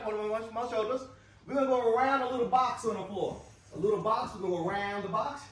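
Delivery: excited guide, not calm. Real, not acted. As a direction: call out the next move with urgency. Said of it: "your voice was a little more excited".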